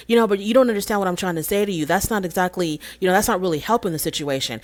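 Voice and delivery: quick, mildly frustrated pushback; a touch of exasperation, fast; frustrated reply. Retold or imitated. Husband pushing back at wife's criticism, mildly frustrated. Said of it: "he said it just like that".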